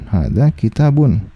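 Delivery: slowed down, each word drawn out; slow repeat. Shown as a demonstration. Teacher repeating the example slowly for students. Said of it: "Ya, hadza kitabun".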